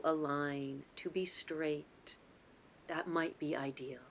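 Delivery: calm, unhurried guidance with long pauses between phrases; guided meditation. Real, not acted. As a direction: lead them gently into the breath, lingering on key words. Leads guided breathing meditation.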